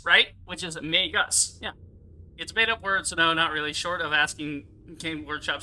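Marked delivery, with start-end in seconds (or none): 0.8-1.6 MAGUS with a clear "uh" in the last syllable; uh ending. Shown as a demonstration. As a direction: say MAGUS as "may-guss". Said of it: "instead of an uh".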